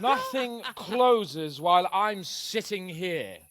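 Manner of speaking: smug laugh. Acted. Drunk lord brushes off closing time.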